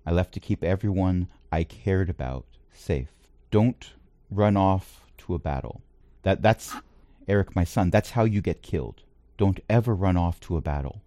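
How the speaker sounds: a hint of a stern, protective father; a father correcting his son, gently firm; a father scolding his son, lightly voiced. GM voices Eric's father Perez.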